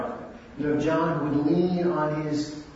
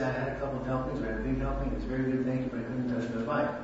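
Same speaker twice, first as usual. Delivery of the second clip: gracious, fast and content; full and satisfied, politely declining; pleasant; 2 semitones lower, 4 dB quieter, much faster than usual. Shown as a demonstration. Telling the wife the pie was very good, gracious and quick. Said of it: "as if to say".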